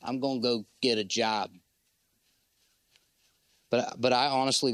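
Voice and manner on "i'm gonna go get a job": dismissive men. Retold or imitated. Preacher mocking men who leave church, lightly raised. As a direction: toss it off like a guy passing the buck. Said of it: "They're like".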